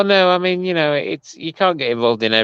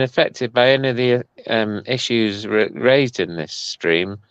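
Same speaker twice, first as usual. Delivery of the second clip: mock announcement; slower than usual.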